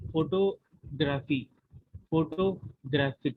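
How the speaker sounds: photography and photographic slowly split into syllables; stress demonstration. Shown as a demonstration. Reader repeating the word stress example, photography and photographic slow and measured. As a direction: say photography, then photographic, piece by piece with pauses. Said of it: "when and where to stress the word".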